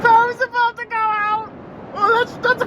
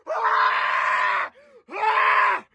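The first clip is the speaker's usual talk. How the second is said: alarmed screams. Acted. Alarmed at something burning.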